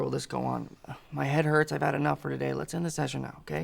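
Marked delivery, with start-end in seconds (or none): 1.1-2.5 louder pained complaint. Acted. Preclear complains, wants to stop.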